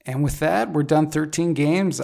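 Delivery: hoarse, worn-out voice. Real, not acted. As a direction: voice going hoarse after a long show. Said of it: "I'm losing my voice".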